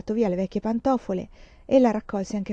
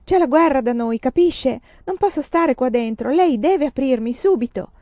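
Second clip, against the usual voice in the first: raised, insistent demand to be let out; louder, pushing the nun to open; urgent angry pleading; 4 semitones higher, 5 dB louder than usual. Acted. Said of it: "Picchiava rabbiosamente alla porta".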